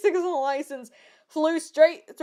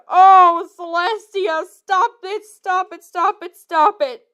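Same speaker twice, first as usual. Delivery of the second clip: begging stop; 4 semitones higher, 5 dB louder, slower than usual. Real, not acted. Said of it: "begging the fic to stop".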